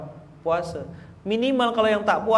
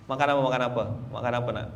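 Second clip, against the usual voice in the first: soothing parent; 4 semitones lower, 5 dB quieter, much faster than usual. Retold or imitated. Parent soothing hungry child.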